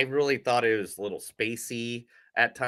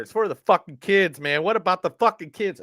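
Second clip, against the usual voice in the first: mock rant; 7 semitones higher, 4 dB louder than usual. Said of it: "that one time in the concert".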